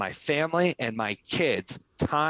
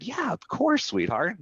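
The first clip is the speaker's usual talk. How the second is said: high-pitched, indulgent dad reply; sweet dad; 6 semitones higher than usual. Retold or imitated. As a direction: coo a yes to a little kid. Father answering his little daughter.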